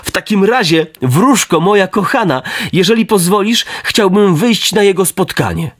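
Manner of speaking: put-on high, eager boyish voice; can't wait to run to his father; excited puppet boy. Pinocchio asking the fairy to go meet his father, eagerly and high.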